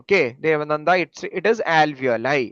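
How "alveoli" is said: alveoli said slowly, al-vee-o-lai; pronunciation model. Shown as a demonstration. Teacher correcting Devananda's reading, alveoli slowly as al-vee-o-lai. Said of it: "you should learn the pronunciation".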